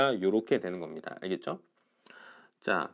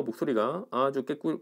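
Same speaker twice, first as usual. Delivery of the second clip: ordinary delivery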